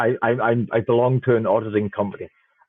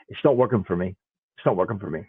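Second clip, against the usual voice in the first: mock whiny user; 6 semitones lower, 4 dB quieter, faster than usual. Imitating users reporting bugs.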